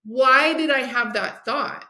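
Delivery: slow, puzzled inner voice; slow self-questioning. Retold or imitated. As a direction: ask yourself slowly, puzzled. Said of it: "And then I'm like".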